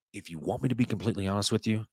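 low confiding hush, a bit fast; leaning in to whisper. Pretend. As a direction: lean in and hush it like a secret. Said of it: "notice I've got my whisper voice on".

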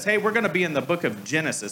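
fast, offhand pastor announcement; quick mock announcement from the pulpit; breezy pastor. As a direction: toss it off like an easy pastor cue. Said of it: "I love when a pastor says".

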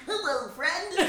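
high, cutesy greeting impression; playful mock-innocent hello; expected sweet friend. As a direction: imitate a friend's sweet little voice. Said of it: "Thinking he was gonna be like".

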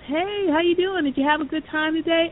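put-on high, bright-toned cheery hello to the kid; friendly greeting. Football player checking on a kid after the event. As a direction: greet him like a kind coach.

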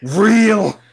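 loud short cheer; excited shout. Real, not acted. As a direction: yell it out excitedly. Cheering the scene.

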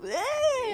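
high-pitched drawn-out "ehh"; squeaky noncommittal wince sound; hedging eh. Real, not acted. Sound hedging that friend is dumb.

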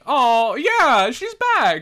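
high, loud mock-triumphant whoop; gleeful cheer. Fan cheering that Bailey is back, gleeful.

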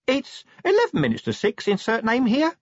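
tiny, high-pitched imp speaking meekly; small timid squeak of a voice. A narrator's reading. Imp giving Vimes the time from his pocket, meekly. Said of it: "said the imp meekly".

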